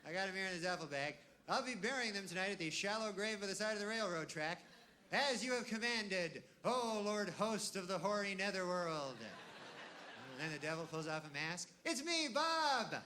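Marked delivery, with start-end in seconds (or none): 0.0-9.2 lightly voiced, higher, dutiful report to a master; hint of a devoted minion, slowing for the grand title; obedient servant voice. Killer reports his deeds to the devil, mock solemn. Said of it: "you go". 11.8-13.0 high, very slow gotcha voice; cheery reveal. Pretend. Friend pulls off devil mask, slow gleeful gotcha.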